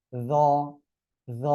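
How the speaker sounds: য with tongue tip on upper teeth; touch tongue to front teeth for য; dental য sound. Shown as a demonstration. Teacher names the new letter, dental buzzed য. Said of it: "উচ্চারণটা করবেন হলো".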